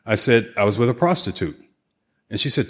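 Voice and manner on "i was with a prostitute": retold flat-out casual admission; matter-of-fact. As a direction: say it like it's nothing. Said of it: "How can you say that so matter-of-factly?".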